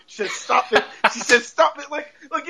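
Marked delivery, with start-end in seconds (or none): 0.3-0.8 light, amused mock plea; laughing protest. Missus Hart keeps telling Arthur to stop, laughing protest. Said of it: "in, like, all these acting ways". 1.4-1.9 higher, giggly mock plea; laughing protest. Missus Hart keeps telling Arthur to stop, higher laughing protest. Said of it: "in, like, all these acting ways".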